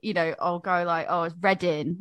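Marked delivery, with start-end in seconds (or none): 1.1-2.0 "Reading" ending in -in, no g; dropped g. Shown as a demonstration. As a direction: let the g fall off the end of "Reading".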